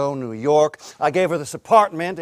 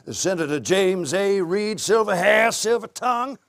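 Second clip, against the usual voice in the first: rising, higher announcer-like flourish; mock grand introduction; 5 semitones higher than usual. Husband introducing wife's attorney, mock grand. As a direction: present him with showy pomp.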